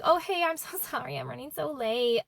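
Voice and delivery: high, airy excuse with a giggle; breezy apology. Retold or imitated. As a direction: imitate a friend laughing off being late. Friend phones, breezily excusing her lateness.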